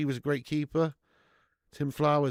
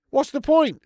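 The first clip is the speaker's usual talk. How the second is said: raised, louder frustrated question; exasperated; 10 semitones higher, 8 dB louder than usual. Real, not acted. Streamer repeating his complaint to chat, exasperated. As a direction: demand an answer, fed up.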